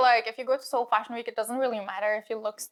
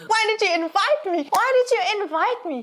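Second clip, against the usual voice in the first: heated; 8 semitones higher than usual. Real, not acted. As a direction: demand an answer, really worked up. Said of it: "I'm getting heated".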